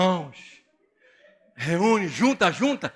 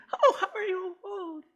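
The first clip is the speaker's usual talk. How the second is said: high, exaggerated put-on American accent; mock American accent; 13 semitones higher, 4 dB quieter, slower than usual. Pastor mocking the wife's fake American greeting. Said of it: "fala com sotaque que nem americano".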